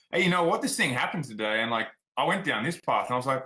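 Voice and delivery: retold message, high and loud with excitement; excited client. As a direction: gush like an amazed client.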